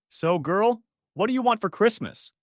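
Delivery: high, loud show voice; staying in character, loud for the crowd; loud Santa. Acted. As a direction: project Santa to the audience. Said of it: "I said loudly".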